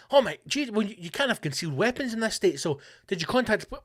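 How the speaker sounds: high and fast, alarmed; mock alarm. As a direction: rattle off the worried questions. Acted dialogue, listener alarmed.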